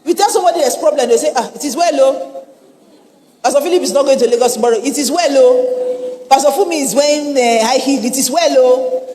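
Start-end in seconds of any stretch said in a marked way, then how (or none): 1.3-2.5 mock resigned sigh of sympathy. Preacher mimics church folk reacting to bad news, mock resigned. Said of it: "That's how we use "It is well". 3.4-9.0 mock-pitying, each "it is well, oh" a refrain; mock resigned lament. Preacher mimics church folk reporting trivial problems, mock resigned. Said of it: "That's how we use "It is well".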